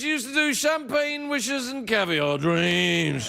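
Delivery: slow, lightly voiced Robin Leach; a hint of Robin Leach's grand host voice; Robin Leach impression. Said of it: "sound a bit like Robin Leach".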